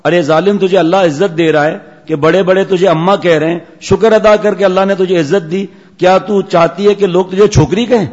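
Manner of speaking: mock scolding. Preacher scolds girl.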